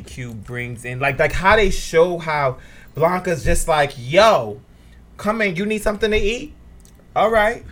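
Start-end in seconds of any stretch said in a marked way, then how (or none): 4.0-7.6 imitating Blanca. Voicing Blanca welcoming people.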